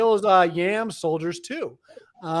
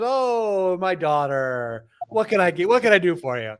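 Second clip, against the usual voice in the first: a hint of a fond, giving-in dad; doting father. Sky father answering his threatening daughter, lightly doting. Voicing El meekly indulging Anat.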